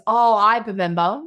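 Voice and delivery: a hint of a cute kid piping up; cute little girl. Daughter suddenly remembering the boat, lightly imitated cute child. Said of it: "So cute how she says".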